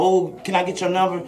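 soft mock pickup line, lightly voiced; mocking a thirsty dude. Mocking the men who holler at her at the gas pump, soft mock come-on. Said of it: "without you talking about something".

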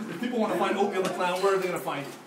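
fast, still laughing through the question; laughing retake. Real, not acted. Host retrying his question to the clown, still laughing. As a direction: rush the question out while giggling. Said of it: "oh my gosh!".

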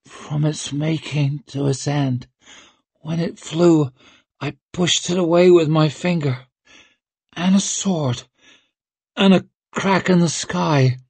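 high, halting, strained croak. Acted. Dazed girl telling the witch her vision, croaked. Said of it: "croaked Rika".

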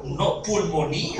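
slow, laughing overstatement; laughing punchline. Retold or imitated. Friend overselling even the cough, slow laughing punchline. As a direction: deliver the gag with a laugh.

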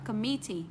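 Committee as com-MIT-tee; stress on second syllable. Shown as a demonstration. Teacher modelling the exception, Committee as com-MIT-tee. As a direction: lean on the middle of Committee. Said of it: "chỉ có một cách đọc duy nhất là âm tiết thứ hai".

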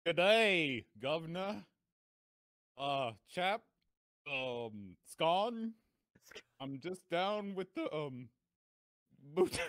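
high, halting put-on English accent; a hammed-up English gent fumbling for British words; mock English accent. Host performing a requested English accent for the show, halting mock English accent. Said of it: "an English accent".

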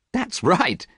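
high-pitched, lightly amused agreement; light amusement. A narrator's reading. Painter joins his friend's joke, lightly amused. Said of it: "laughing too".

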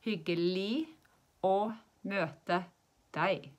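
slow model phrase with "deg" ending without a G; silent final G. Shown as a demonstration. Teacher showing nice to meet you, "deg" said slowly without its G. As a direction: drop the G at the end of "deg". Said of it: "We don't say the G at the end".

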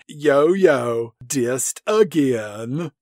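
slow smug drawl. Retold or imitated. Smug grin voiced.

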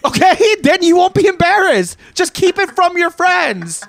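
high-pitched, strained scolding of mom; exasperated mock rant. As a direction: plead and scold way up high, hammed-up. Mock rant addressed to mother.

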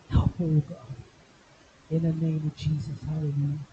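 earnest spoken prayer, rising on the calls to God; a pastor laying hands and praying aloud; fervent prayer. Acted. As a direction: pray over her with conviction. Pastor prays over a congregant.

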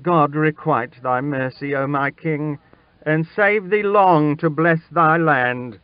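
high, grateful exclamation; joyful relief, pitch climbing; glad cry. A narrator's reading. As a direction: cry out thanks to your king. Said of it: "with a glad cry".

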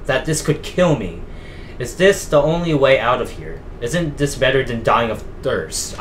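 measured, dramatic diary narration; diary read-aloud. Acted. Player reading George Walker's found diary to viewers, dramatic read-aloud.

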